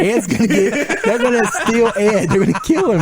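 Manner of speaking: hammed-up worry for friend; mock panic. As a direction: play up fear for Ed. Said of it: "I was like".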